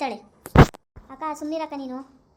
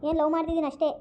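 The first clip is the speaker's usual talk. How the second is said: loud pleading; 3 semitones higher, 3 dB louder than usual. Acted. Daughter pleading with mother.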